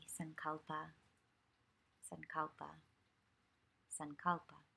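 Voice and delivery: understated meditation cue, each word set apart; simple spoken cue. Shown as a demonstration. Yoga teacher shows trainees how to cue students back, simply and unhurriedly. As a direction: say it simply, unhurried, with pauses between. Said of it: "you would just say simply".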